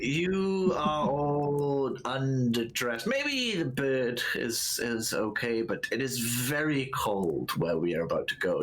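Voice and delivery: slow, deliberate warning voice; measured older guide, cautioning; slow stern NPC voice. Acted. NPC warns about cold.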